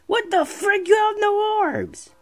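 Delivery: high-pitched drawn-out cry of disbelief; exasperated yelp. Real, not acted. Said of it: "I'm just screaming too much".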